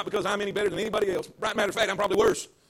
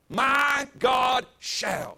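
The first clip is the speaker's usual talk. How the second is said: slow, loud, stretched-out proclamation; leading the church in a loud, drawn-out declaration; declared loudly; 2 semitones higher, much slower than usual. Shown as a demonstration. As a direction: stretch each word and shout it out. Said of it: "Say it with me".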